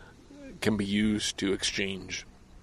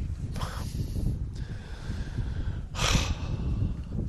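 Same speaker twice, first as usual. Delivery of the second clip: exasperated sigh. Real, not acted. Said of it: "I'm exasperated".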